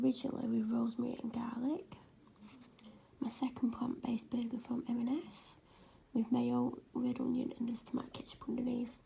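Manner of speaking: soft late-night whisper. Real, not acted. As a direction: whisper it so nobody wakes. Whispered late-night food voiceover.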